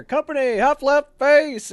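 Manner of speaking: high, loud drill sergeant call; barked parade-ground order; drill command. Retold or imitated. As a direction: bellow it across the yard like a drill sergeant.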